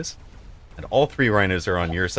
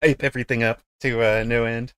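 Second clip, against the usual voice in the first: hyped arena announcer, pitched up; monster truck announcer; 4 semitones higher than usual. Pretend. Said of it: "monster truck announcer guy".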